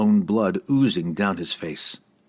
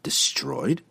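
surprised whisper; 5 semitones higher, 3 dB quieter than usual. Acted.

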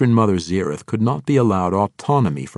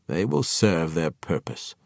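evenly; 3 semitones lower than usual. A narrator's reading. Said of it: "the Archmage replied evenly".

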